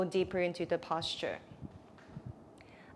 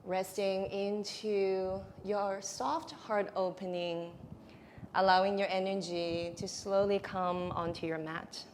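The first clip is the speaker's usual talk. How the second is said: guided relaxation; 4 dB quieter than usual. Real, not acted. Yoga teacher settling students into a heart opening, soothing guided relaxation. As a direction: ease them gently into the pose, softly.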